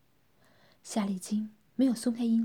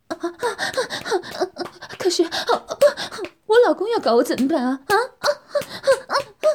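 high, louder moaning words; moaning reply; 9 semitones higher, 6 dB louder than usual. Acted. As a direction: talk through moans. Woman answers while moaning. (边呻吟边回答)

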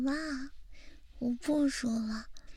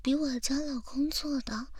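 whispering. Acted. Whispered compliments.

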